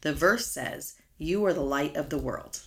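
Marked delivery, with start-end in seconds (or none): 1.2-2.6 "are" stressed firmly, falling at the end. Shown as a demonstration. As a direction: hit "are" as a fact. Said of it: "That's an emphatic statement".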